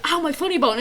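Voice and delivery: lighter mock yelp. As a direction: tease it gently. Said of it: "you went like".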